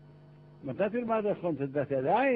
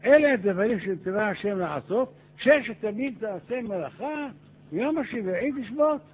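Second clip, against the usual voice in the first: louder, higher-pitched proclaiming voice; proclamation; 4 semitones higher, 5 dB louder than usual. Acted. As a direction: declare a commandment to the crowd. Moses proclaims commandment to the people.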